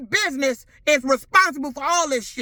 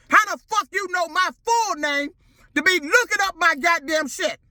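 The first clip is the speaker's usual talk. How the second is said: higher, harder repeat; angry demand; 5 semitones higher than usual. Real, not acted. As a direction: ask it again, furious and higher. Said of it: "repeated, higher and harder".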